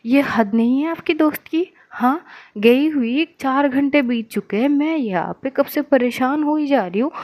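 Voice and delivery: a friend furious after four hours of unanswered calls, scolding; angry outburst. Acted. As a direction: tear into her for not answering. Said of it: "आद्या एकदम से बरस पड़ती है".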